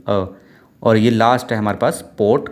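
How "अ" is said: "अ" cut off short; a brief, sharp "अ". Shown as a demonstration. Teacher naming the symbol's sound, short "अ". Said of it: "sharp cut वाली".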